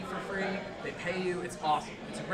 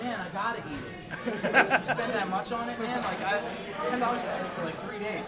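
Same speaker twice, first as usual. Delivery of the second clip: put-on drunk logic; 3 semitones higher than usual. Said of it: "you got that drunk logic".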